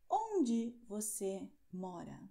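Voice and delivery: slow, clearly spaced question; teacher speaking slowly; slow model question. Shown as a demonstration. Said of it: "teacher models question".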